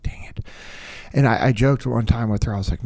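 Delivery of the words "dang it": hushed little "Dang it" under the breath; soft whispered grumble; whispered mutter. Retold or imitated. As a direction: mutter it to yourself, barely voiced. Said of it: "I'm like".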